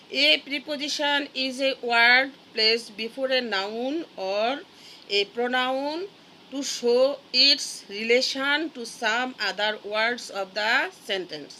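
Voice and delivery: very slow, word-by-word English definition; slow dictation. Shown as a demonstration. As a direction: read it out so the class can write it down. (ধীরে ধীরে শ্রুতিলিখনের মতো পড়া)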